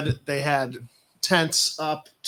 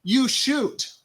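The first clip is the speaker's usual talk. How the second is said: high put-on voice; mock viewer voice; 9 semitones higher, 4 dB louder, much slower than usual. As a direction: lampoon a bored viewer.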